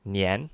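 Nian rising up; Nian in second tone. Shown as a demonstration. Cohost teaching the dinner word: Nian rising. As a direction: let Nian rise. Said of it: "in the second tone".

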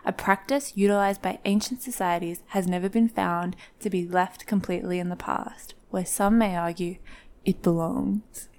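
dark, dramatic documentary-style opening; dramatic intro narration. Acted. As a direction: set a dark, serious scene. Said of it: "Very dramatic".

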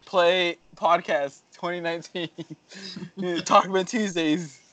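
lightly slowed command to Alexa. Pretend. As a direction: spell it out for the speaker.

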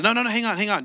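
acted protest. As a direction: cut in to stop someone leaving. Retold seller stops the departing buyer.

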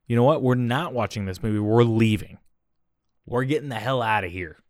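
loud stern dad telling off; stern and angry. Retold or imitated. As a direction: lay down the law firmly. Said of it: "Can't reward him now".

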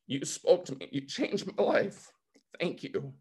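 emotional. Real, not acted. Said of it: "Sorry for getting emotional".

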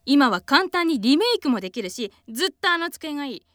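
pleading, lively acted family argument; radio drama dialogue. Child begs mother to keep the old desk, pleading. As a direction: act out a small household dispute.

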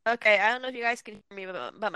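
choppy, cutting-out phone line; breaking up space radio. Real, not acted. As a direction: voice dropping in and out. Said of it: "you're breaking up all over the place".

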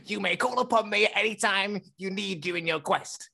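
lightly voiced Sean, grandly offering help; mock-solemn offer, breaking into laughs; Sean impression. Sean offers Ethan his Pokeball, mock grand voice. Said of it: "my Sean impression".

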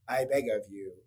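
mock toneless plea, slow; deadpan monotone begging; flat stoic queen. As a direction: beg with no feeling at all, very slow. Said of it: "I don't have any inflection".

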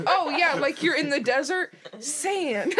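loud, casual God voice. Retold or imitated. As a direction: play a breezy God. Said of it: "He's like".

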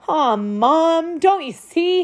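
put-on a small boy sniffling as he pleads. A narrator's reading. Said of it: "he sniffled".

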